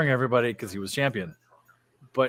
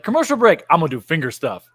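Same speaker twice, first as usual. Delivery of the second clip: loud mock announcement; 3 semitones higher, 8 dB louder than usual. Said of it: "It was like".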